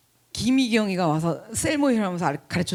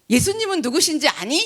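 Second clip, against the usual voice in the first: teacher question; 6 semitones higher than usual. Retold or imitated. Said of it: "뭐라 그랬냐면 이랬대요".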